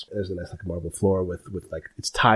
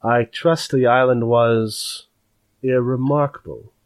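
lightly voiced sly clerk; 3 semitones higher, 4 dB louder than usual. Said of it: "sizes you up and says".

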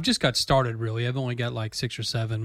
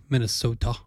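Minnesota accent; 2 semitones lower than usual. Shown as a demonstration. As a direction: say it like a Minnesotan, lightly. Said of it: "you got your Northern accents, like".

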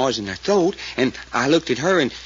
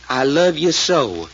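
pleading; slower than usual. Retold or imitated. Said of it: "in a kinda pleading voice and all the time trembling".

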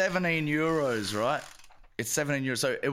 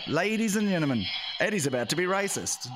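mock announcement; 3 semitones higher than usual. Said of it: "I'll put on an announcement".

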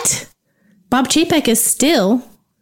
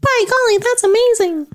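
mock old-timey exclaim; 11 semitones higher than usual.

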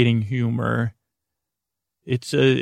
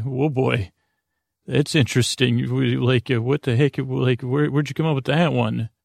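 neutral curiosity. Retold or imitated. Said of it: "But in a little bit neutral way".

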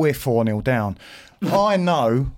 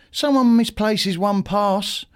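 higher-pitched, insistent accusation; mildly heated complaint; retold telling-off; 5 semitones higher than usual. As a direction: relive having it out with the boss. Retold confrontation with the manager.

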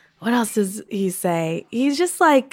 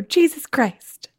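slow, higher mock exasperation; child imitating dad; 6 semitones higher, slower than usual. Little sister doing an impression of Dad, slow mock curse. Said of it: "do an impression of Dad".

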